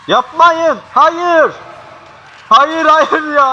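terrified scream. Real, not acted. Watching a horror scene, pleading in terrified screams. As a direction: scream it in real horror, the last hayır drawn out slow.

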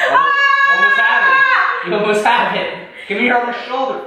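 high excited urging. Real, not acted. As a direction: cheer them on to finish. Cheering partner during hard pose.

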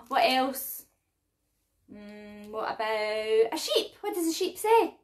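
bright sing-song for little ones; reading to a toddler. Acted. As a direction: talk to toddlers, lively and clear. Toddler music class presenter voice.

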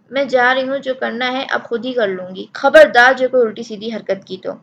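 put-on furious girl's parting threat; angry threat. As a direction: warn them hotly. Girl storms off threatening.

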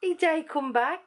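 high Black Country lilt; sing-songy Black Country accent. Shown as a demonstration. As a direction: pitch it up, Black Country style. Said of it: "it goes up".

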